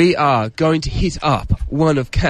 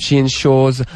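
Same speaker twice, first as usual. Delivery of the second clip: posh voice; slower than usual. Pretend. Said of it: "posh voice just for fun".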